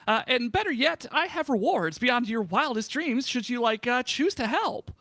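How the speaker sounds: slightly high sheep hero asking for help; a hint of a grand heroine pleading; lightly voiced sheep. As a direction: sheep hero tells adventurers she needs air. Voicing the sheep.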